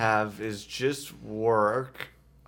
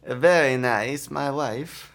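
Borat impression; 4 semitones higher, much slower than usual. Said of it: "That's Borat".

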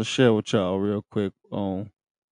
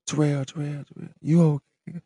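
echoing voice; 7 semitones higher than usual. Retold or imitated. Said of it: "it was like she was echoing".

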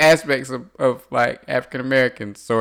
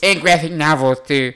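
nerd voice; 4 semitones higher than usual. Pretend. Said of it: "it's my nerd voice".

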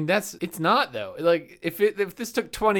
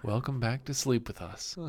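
soft ASMR voice; 4 semitones lower, 6 dB quieter than usual. Pretend. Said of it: "we should do an ASMR podcast".

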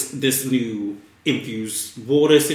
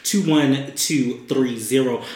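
radio announcer voice. Shown as a demonstration. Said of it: "my radio voice when I read".

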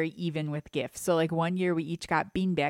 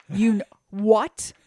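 put-on stunned child; 3 semitones higher, 7 dB louder, slower than usual. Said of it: "And I was like".

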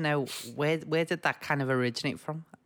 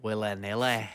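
put-on Scottish accent; 4 semitones lower than usual. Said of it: "But maybe more Scottish".

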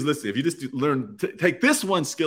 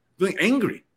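mock angry; 8 semitones higher than usual. Shown as a demonstration. Listing feelings, last one voiced.

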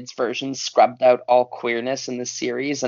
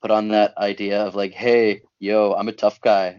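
low tough-guy voice; 4 semitones lower than usual. Shown as a demonstration. Speaker showing how they used to talk, in a low tough-guy voice. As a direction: pitch dropped into a put-on tough guy register. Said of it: "I got this low voice".

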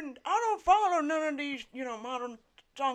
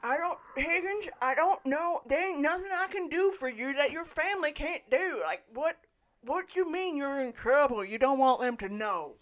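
put-on old man voice. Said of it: "It's my old man voice".

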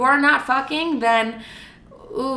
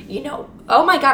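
voice crack; 4 semitones higher, 3 dB louder than usual. Real, not acted. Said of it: "I just had a voice crack".

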